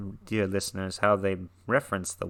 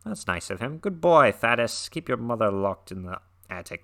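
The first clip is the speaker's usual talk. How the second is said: mock-proud pat on the head, a touch louder; sarcastic praise; 3 semitones higher, 6 dB louder than usual. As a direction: fake praise dripping with irony. Sarcastic aside on the story.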